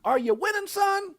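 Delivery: high voiced dad asking; father's question. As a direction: play the proud dad. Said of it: "It says".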